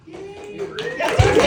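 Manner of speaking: sudden high, loud shout of praise; excited exclamation. Real, not acted. Cheering a colleague before crowd.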